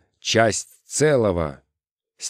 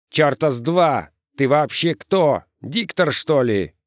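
high, scornful challenge; squabbling; 6 semitones higher than usual. A narrator's reading. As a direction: challenge a rival in the gang. Перебранка в толпе парней.

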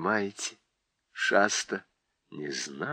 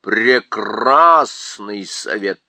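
slow, louder croaking bird; a raven's grand approval; raven approving; 3 semitones lower, 7 dB louder, much slower than usual. A narrator's reading. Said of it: "сказал ворон".

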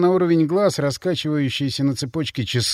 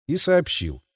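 ordinary delivery, nothing marked

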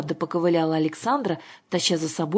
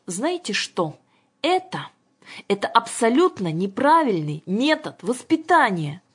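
high, spluttering outrage; indignant rebellion; 6 semitones higher, 3 dB louder than usual. A narrator's reading. Governess confronts father about upbringing, indignant. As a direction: stumble into a raised-voice protest.

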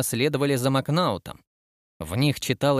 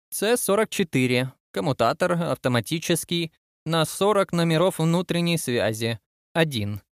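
lightly voiced admiral, pitched higher; inspecting admiral; 4 semitones higher than usual. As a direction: read out inventory items as an inspecting admiral. Admiral reads out inventory list.

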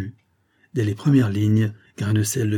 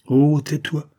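higher-pitched hushing plea; mildly acted quick protest; urgent, sharp; 5 semitones higher, 4 dB louder, slower than usual. A narrator's reading. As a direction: cut the lad off with some urgency. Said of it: "dit vivement le comte".

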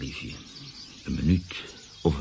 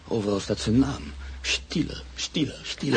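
panicked cry; 7 semitones higher, 5 dB louder than usual. Acted. Panicked man sees the name everywhere.

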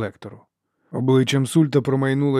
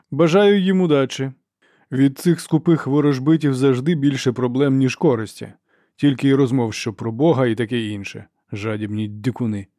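scornful dismissal; 2 semitones higher, 3 dB louder than usual. Acted. Archlector complains to the inquisitor about greedy navigators, scornful. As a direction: wish them luck with contempt, then grumble.

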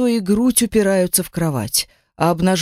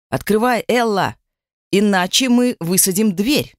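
booming; 2 semitones higher than usual. Acted. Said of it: "прогремели с той стороны".

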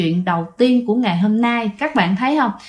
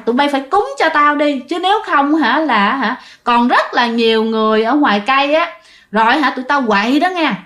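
mildly raised, threatening demand; a hint of a fierce spirit; 3 semitones higher than usual. Ghost warning the family to make offerings, mild menace. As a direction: glare and warn them, lightly voiced. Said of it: "nhìn trừng mà hung dữ".

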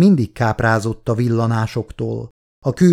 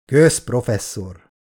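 indifferent; slower than usual. Acted. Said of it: "mondta Verheiden közömbösen".

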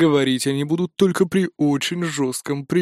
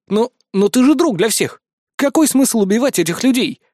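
shocked plea; 7 semitones higher, 3 dB louder than usual. Acted. Hero protests in shock.

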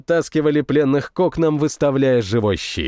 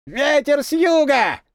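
high, slow call from far off; a lone voice shouting a war signal from afar; distant cry; 12 semitones higher than usual. A narrator's reading. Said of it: "раздался чей-то крик вдали".

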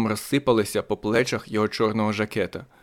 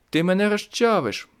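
much higher frantic plea; panicked cry; 9 semitones higher than usual. Acted. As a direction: gasp it out, crushed. Diana panicking, pinned.

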